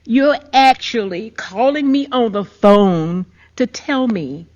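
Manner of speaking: incredulous confrontation, starting loud, then dropping; retold hysterical outrage. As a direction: re-enact outrage at the caller, short of screaming. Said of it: "I am hysterical, I am screaming".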